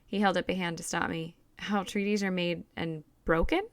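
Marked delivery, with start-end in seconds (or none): 1.6-3.6 "broken" lightly leaned on, rising question; slight stress on broken. A narrator's reading. Father probing his daughter's lesson, stressing "broken". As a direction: question with a gentle weight on "broken". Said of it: "His voice slightly emphasized the last word".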